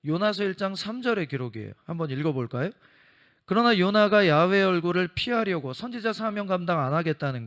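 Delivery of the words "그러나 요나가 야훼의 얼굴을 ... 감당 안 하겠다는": louder proclaiming Bible reading; loud scripture reading. Acted. Preacher reading Jonah to the congregation, loud proclamation. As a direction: read the verse out to the whole congregation.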